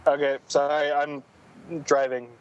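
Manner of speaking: speakerphone call from a car; breaking-up phone line from driving. Real, not acted. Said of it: "I'm driving, losing reception thing".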